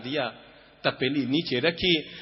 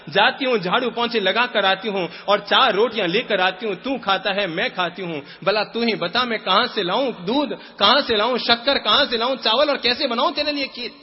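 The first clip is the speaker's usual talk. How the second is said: higher, louder despairing poor mother; pleading mother; 6 semitones higher, 3 dB louder than usual. Acted. Poor mother answering her son.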